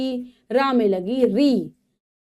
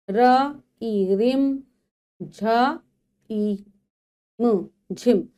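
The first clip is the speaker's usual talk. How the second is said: slow phonics spelling, each sound apart; teacher breaks रिम झिम into र, ई, म and झ, ई, म slowly; sounding out letter by letter; slower than usual. Shown as a demonstration. Teacher spells it out for children, slowly letter by letter. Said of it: "ठीक है, रिम झिम".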